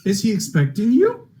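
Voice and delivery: a snooty question that breaks into laughter; clerk voice through laughter. Acted. Game master voicing the clerk to the players, laughing. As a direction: hold the clerk voice while cracking up. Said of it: "and he goes".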